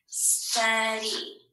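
"Study" stretched out syllable by syllable; teacher breaking "Study" into its two syllables; split into syllables. Shown as a demonstration. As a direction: sound out "Study" in two long beats. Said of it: "let's scoop this word".

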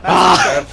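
short exclaimed yell; sudden yell. Real, not acted. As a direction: cry out at a mishap in a game. Cries out during the game.

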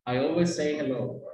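always say with one S dropped; single S. Shown as a demonstration. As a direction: merge the end of always into say. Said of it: "Si puedes omitir una si quieres".

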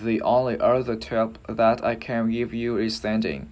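"The only other tip" joined syllable to syllable; careful English, each word linked into the next; linked-up demonstration. Shown as a demonstration. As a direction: model the joined-up English phrase for learners. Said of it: "giống như là mình sẽ nói ghép vào".

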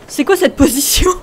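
laughing shout. Real, not acted. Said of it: "On dit, qu'est-ce que c'est que cette position?".

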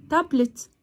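"تابلت" as two quick beats, tab-let; two syllables. Shown as a demonstration. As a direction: lightly mark both halves of "تابلت". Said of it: "الكلمات اللي على مقطعين زي ايه". ("تابلت" على مقطعين)

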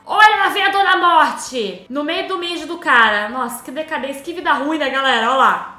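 loud gleeful announcing; excited. Real, not acted. Gamer announcing Death to viewers, loud glee.

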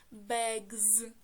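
"bags" ending in a buzzing voiced z; plural s as z. Shown as a demonstration. Teacher forming the plural of bag, final s voiced as z. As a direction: say "bags" as begz, voicing the final s. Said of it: "але читатися воно буде як".

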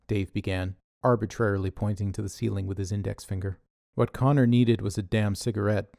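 ordinary delivery

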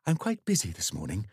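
a hint of a flustered vicar; lightly voiced halting vicar excuse; hesitant vicar. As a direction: stumble over the words, unsure. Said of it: "The vicar hesitated".

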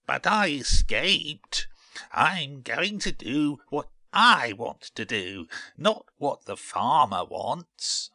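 high, boastful seed voice; puffed-up little character, high-pitched; proud little seed. A narrator's reading. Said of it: "said Bert proudly".

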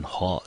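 ho said alone, rising; teacher sounds out ho; syllable ho. Shown as a demonstration. Teacher isolating syllable, ho with rising tune. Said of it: "我们就念成ho的音".

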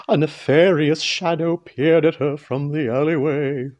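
low, sinister storyteller; ominous narration. A narrator's reading. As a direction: drop low to introduce the villain. Villain introduced ominously in story.

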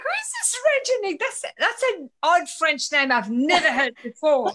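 puzzled, starting high and easing down. Retold or imitated. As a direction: imitate your own baffled first reaction. Retells her puzzled first reaction.

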